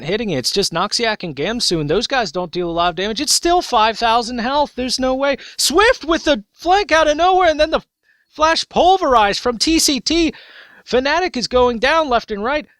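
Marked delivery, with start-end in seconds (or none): 3.2-12.7 rising hype, loud and high; excited cast. Real, not acted. Caster yelling over the teamfight, excited. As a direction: caster losing it as the fight breaks. Live casting of Baron fight.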